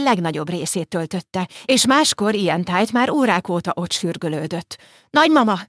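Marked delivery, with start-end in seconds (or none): 5.1-5.6 high, loud call on the edge of tears; half-sobbing cry. Acted. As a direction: cry out for her again, close to sobbing. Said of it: "kiáltotta megint, most már félig zokogva". (félig zokogó, magas kiáltás)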